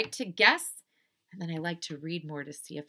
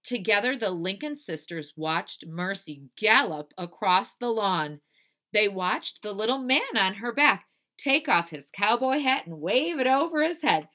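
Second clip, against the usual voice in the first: put-on animated, loud read-aloud for children; story narration; 4 semitones higher, 6 dB louder than usual. A narrator's reading. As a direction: build the excitement for young listeners.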